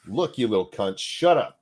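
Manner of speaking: mock scolding, rising on the order; assertive dad voice. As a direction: put them in their place like Dad. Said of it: "get that dad voice".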